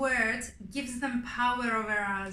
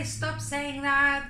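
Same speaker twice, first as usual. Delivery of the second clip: stern parental order; 2 semitones higher, 5 dB louder, much slower than usual. Retold or imitated. What parents shouldn't say.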